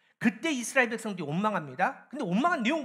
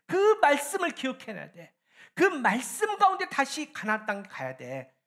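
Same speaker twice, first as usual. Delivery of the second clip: raised, pressing preacher's appeal; urging exhortation; 6 semitones higher, 4 dB louder than usual. Acted. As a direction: urge the people in God's words, pitched up. Voices God's urging to Israel. (언약을 상기시키듯 높여 촉구하는 말투)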